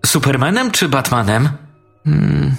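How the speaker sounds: put-on two small boys chatting over their toys; lightly voiced little boys. A narrator's reading. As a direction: play both boys as small children, light and eager.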